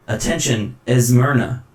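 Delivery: robotic announcement voice; mechanical voice. Acted. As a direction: stiff machine announcer. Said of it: "And it says".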